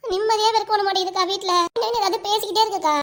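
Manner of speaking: tearful complaint. Acted. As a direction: complain as if close to tears. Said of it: "ஏன் அழுதுகிட்டே வர".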